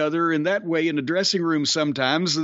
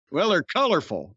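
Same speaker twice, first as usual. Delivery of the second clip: usual speaking voice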